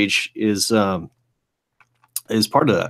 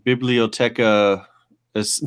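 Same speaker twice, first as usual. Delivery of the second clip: halting Spanish attempt; slower than usual. Shown as a demonstration. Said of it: "how do you say that in Spanish".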